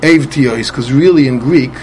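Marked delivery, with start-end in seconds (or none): 0.0-0.7 Ev Tiyois ending in s instead of m; "Ev Tiyois" with a sibilant ending; final samech. Shown as a demonstration. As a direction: say "Ev Tiyois" as ev-tee-yoys. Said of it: "he's Goyres with a Samich".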